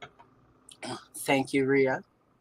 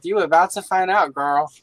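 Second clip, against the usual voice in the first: Southern drawl; 3 semitones higher, 4 dB louder than usual. Retold or imitated. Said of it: "as we say back in the South".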